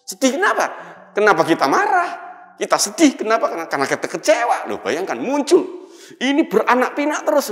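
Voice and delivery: high, loud preaching climax; preaching at full force. Acted. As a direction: drive the questions home to the congregation. Preacher raising voice mid-sermon.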